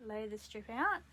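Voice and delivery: talking around a pin held in the lips; pins in mouth. Real, not acted. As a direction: speak with a pin clamped in the mouth. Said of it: "I have a pin in my mouth".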